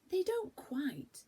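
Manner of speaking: slow, breathy whisper; whispered doubt. Acted. Franny whispers to Beth about the trees. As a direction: hush it, unsure.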